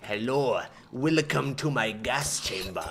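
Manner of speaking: low-pitched, lightly put-on welcome; mock host greeting. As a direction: greet victims as a hint of a villainous host.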